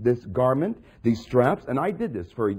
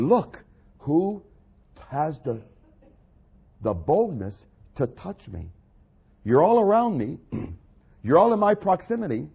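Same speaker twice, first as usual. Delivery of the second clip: a calling, searching Jesus in the crowd; voicing Jesus. Preacher voicing Jesus asking the crowd, searching and calling.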